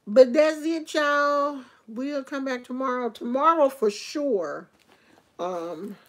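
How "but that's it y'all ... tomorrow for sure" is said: higher, louder, upbeat farewell; loud cheery sign-off. Real, not acted. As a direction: call it out to the viewers. Signing off to viewers.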